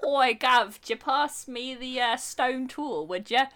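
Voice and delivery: put-on casual British caveman accent, slow. Joking about cavemen having British accents, casual British caveman. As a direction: ask for the stone tool like a British bloke. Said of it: "that is what cavemen sounded like".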